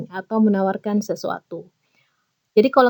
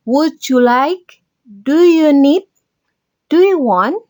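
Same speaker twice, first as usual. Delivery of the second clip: recap drill; 4 semitones higher, 4 dB louder, slower than usual. Shown as a demonstration. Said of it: "kalian bisa menggunakan kata-kata ini".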